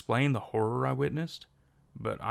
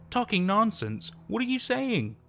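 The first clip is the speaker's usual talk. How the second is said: a much higher, distraught cry; choked out; 10 semitones higher, 3 dB louder than usual. A narrator's reading. Anna to her father, choking out the protest. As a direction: voice cracking up high in disbelief. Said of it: "I choked out".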